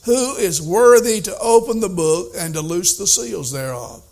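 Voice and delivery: booming herald's call; loud proclamation. Retold or imitated. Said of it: "he proclaimed with a vo-, loud voice".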